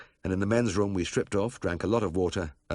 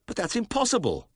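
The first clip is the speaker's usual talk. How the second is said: cried out; 3 dB louder than usual. A narrator's reading. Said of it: "I cried".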